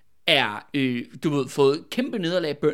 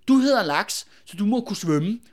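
lightly acted taunting shout; mock shout; 3 semitones higher, 4 dB louder than usual. Killers taunting the man they stabbed, mock shout. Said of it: "så råber de bare".

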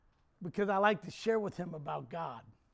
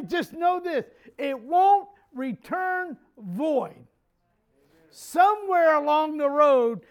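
shouted, much higher and louder, slowing on "It won't return void"; preaching at full force; 7 semitones higher, 10 dB louder, slower than usual. Acted. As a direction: shout the promise to the church.

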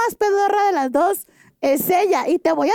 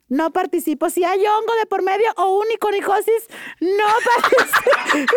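laughing refusal. Real, not acted. Refusing foot fungus, laughing.

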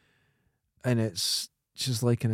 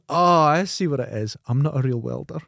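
put-on little boy realising; 2 semitones higher than usual. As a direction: deliver the punchline as the naive boy's dawning idea. Joke punchline, boy realises.

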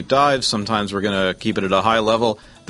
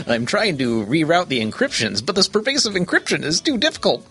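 action movie hero; 7 semitones higher than usual. Pretend. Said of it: "nineties action movie".

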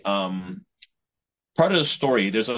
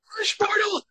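high villain screech. Acted. Villain voice repeated, much higher.

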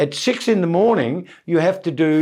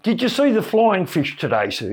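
higher daft sailor voice; the silly voice; 6 semitones higher than usual. Retold or imitated. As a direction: innocent goofy question. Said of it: "do the voice on him".

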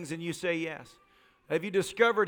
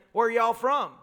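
put-on Georgia accent; 2 semitones higher than usual. Waiter greeting diners in Valdosta, in a Georgia accent. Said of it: "thick Georgia accent".

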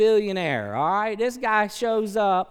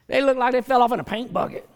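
mocking jab; 5 semitones higher, 6 dB louder, faster than usual. Mocking judgment of appearance.

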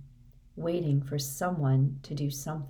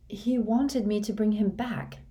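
put-on higher, strained muttering of a dazed boy; muttered; 5 semitones higher than usual. A narrator's reading. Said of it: "Harry muttered".

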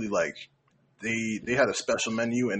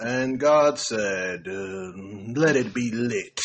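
slow, solemn scripture reading; booming biblical narration; 2 semitones lower, much slower than usual. Pretend. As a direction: read it like the Bible, slowly. Mock biblical reading with slang.

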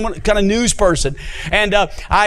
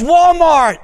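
laughing reminder; 9 semitones higher, 4 dB louder than usual. Retold or imitated. Monica reminds him, voiced.

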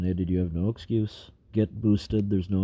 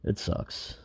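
whispered; 7 dB quieter than usual. Real, not acted. Weary despair, voice drops away.

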